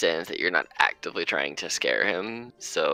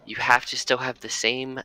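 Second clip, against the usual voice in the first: Ursa voice; 4 semitones higher than usual. Acted.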